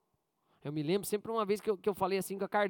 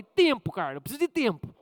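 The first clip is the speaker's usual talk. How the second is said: loud, snapped-out demand for time; curt and harsh; 5 dB louder than usual. Retold or imitated. Pastor retelling how he brushed off Carla, curt and harsh. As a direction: bite the words off like a stressed pastor. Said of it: "eu fui ríspido".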